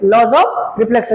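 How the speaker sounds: "Laws of reflection" said slowly, word by word, with a falling end; slow emphatic term. Shown as a demonstration. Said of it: "किसमें पढ़ेंगे?". ("Laws of reflection" धीरे और ज़ोर देकर)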